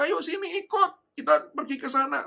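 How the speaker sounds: loud, high call to come along; beckoning call. Retold or imitated. Strangers urging lost child to follow, loud beckoning. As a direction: imitate bystanders urging a child over.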